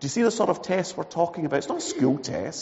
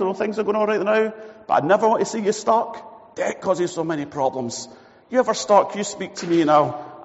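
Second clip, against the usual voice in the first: generous mate; 5 semitones higher than usual. Acted. Voices generous friend.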